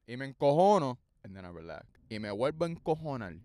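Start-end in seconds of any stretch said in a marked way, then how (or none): 0.1-1.0 louder, a playful flare of temper; mock anger. To viewers, a louder mock flare of anger. 1.2-1.9 much softer, sinking into calm; mock calm. After mock anger to viewers, a quiet relaxed sigh.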